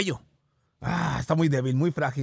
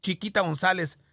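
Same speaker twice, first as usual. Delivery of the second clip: slow mock complaint; slower than usual. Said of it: "está como diciendo".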